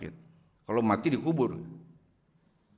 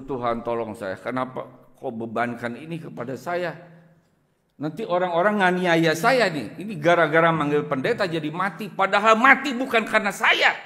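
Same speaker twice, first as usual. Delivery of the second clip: crying out to God; 2 semitones higher than usual. Retold or imitated. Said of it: "saya berseru".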